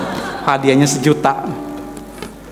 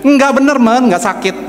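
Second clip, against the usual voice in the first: higher-pitched, emphatic denial; imitated insistent reassurance; 7 semitones higher than usual. Father assures son it will not hurt, retold insistence. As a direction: insist to a doubting child, pitched up.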